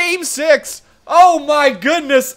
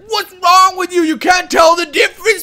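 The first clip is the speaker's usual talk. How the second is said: mocking viewer; 8 semitones higher than usual. Retelling a viewer scolding him, high mock yell. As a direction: sneer it like a rude commenter. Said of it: "He's like".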